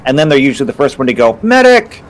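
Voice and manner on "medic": high, loud cry for a medic; yelled, high-pitched mock plea; mock call for help. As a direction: call out like a downed player. Acts out fallen elementalist calling.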